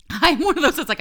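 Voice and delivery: laughing. Real, not acted. Laughs at herself.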